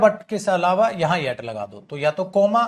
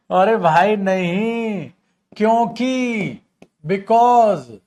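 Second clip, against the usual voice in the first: exasperated correction; 2 semitones higher, 6 dB louder, much slower than usual. Real, not acted. Teacher correcting wrong answer.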